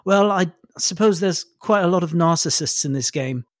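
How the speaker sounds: dry, amused superiority; a lightly voiced smug villain; amused sneer. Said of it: "He laughs a little more and he goes".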